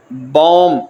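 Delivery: بوم said slowly as German Baum, with a clear b; German word demo. Shown as a demonstration. Teacher demonstrating the German word بوم, slow and clear. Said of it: "بوم مطلب درخت".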